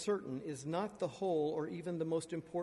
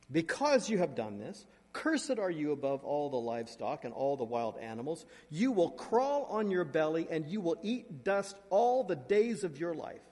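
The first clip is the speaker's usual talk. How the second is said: God pronouncing judgment; 5 dB louder than usual. Acted. God cursing the serpent.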